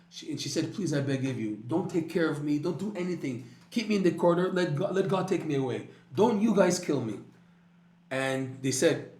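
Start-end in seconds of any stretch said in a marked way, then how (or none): 0.7-7.2 pleading. Retold or imitated. Dying woman begs the doctors to leave her alone, frantic. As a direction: beg for your life, climbing in panic. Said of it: "So she begged".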